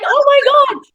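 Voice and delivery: high-pitched imitated squeal; amazed crowd. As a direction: gasp it out like a starstruck onlooker.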